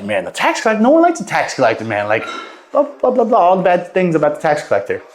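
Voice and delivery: mock griping with high-pitched blah-blahs; disapproving crowd. Townspeople talking about the tax collector nobody likes, lightly mimicked disapproval. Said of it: "Now everyone's saying".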